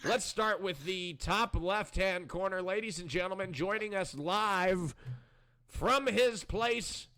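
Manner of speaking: very slow, stretched-out ringside introduction; grand master-of-ceremonies build-up; show announcer. Acted. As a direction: draw out the guest introduction with suspense. Introduces a guest.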